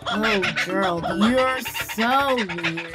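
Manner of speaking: slow, lightly drawn-out taunt; a touch of scorn in a read-aloud; understated teasing animals; mild mocking. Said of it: "the animals all sneered".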